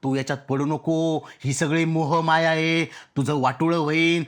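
mock advice. Mimics the discouraging advice he got.

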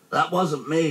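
high, innocent bear voice; high simple-hearted denial; Pooh. A narrator's reading. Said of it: "he said".

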